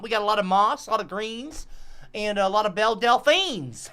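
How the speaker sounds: lightly voiced bayou guide, easygoing list; folksy swamp guide. Guide lists swamp sights to tourists, folksy and easy. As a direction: reel off the sights as a hick guide.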